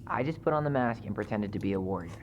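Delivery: muffle censor. Acted. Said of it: "Why is his voice muffled for some reason?".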